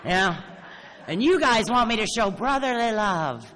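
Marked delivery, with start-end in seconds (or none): 1.1-3.5 high, loud words through laughter; laughing. Real, not acted. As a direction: laugh while saying it. Laughing at the irony.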